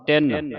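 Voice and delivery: ਤਿੰਨ held weightily on the n; heavy doubled n. Shown as a demonstration. Teacher drilling students, ਤਿੰਨ with heavy n. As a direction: lean hard on "nn" in ਤਿੰਨ. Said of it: "ਤਿੰਨ ਭਾਰਾ ਬੋਲਣਾ".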